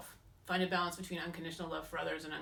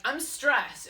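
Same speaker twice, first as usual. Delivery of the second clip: whiny; 7 semitones higher, 7 dB louder than usual. Retold or imitated. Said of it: "And I'm like".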